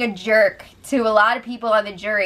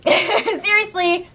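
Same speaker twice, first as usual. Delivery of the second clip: laughing emphasis; 9 semitones higher, much slower than usual. Real, not acted. Laughing, insisting sincerely.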